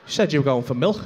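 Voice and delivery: slow, deliberate scolding with long pauses; disgusted wife. Retold or imitated. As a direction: imitate a wife spelling out her disbelief. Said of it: "my wife's gonna see that and go".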